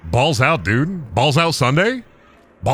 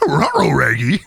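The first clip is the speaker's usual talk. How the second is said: cartoon talking-dog voice; rolled R's and doggy giggling; Scooby-Doo. Cartoon dog warning his pal, slurred dog impression. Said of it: "Do Scooby-Doo".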